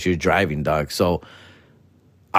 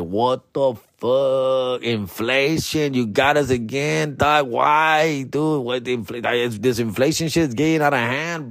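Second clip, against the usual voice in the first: lightly hammed-up freakout; mock outrage. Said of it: "I was like".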